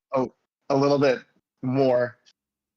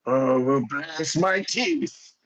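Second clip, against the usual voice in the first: put-on old dwarf exclaiming; 2 semitones higher, much slower than usual. Halfos exclaims on seeing friend.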